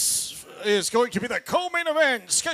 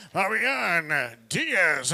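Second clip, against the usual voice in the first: slow, drawn-out name call; ring announcer call; 5 semitones lower, much slower than usual. Real, not acted. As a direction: stretch out the fighter's name.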